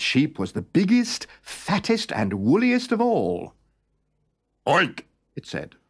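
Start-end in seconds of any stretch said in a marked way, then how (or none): 4.7-5.0 a short voiced pig grunt; pig oink. A narrator's reading. Pig pretending to be a sheep oinks.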